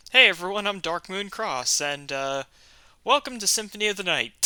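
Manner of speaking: echoey room sound; big hall echo. Real, not acted. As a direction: voice bouncing around a big room. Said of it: "I sound very echoey".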